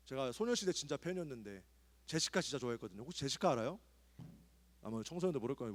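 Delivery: ordinary delivery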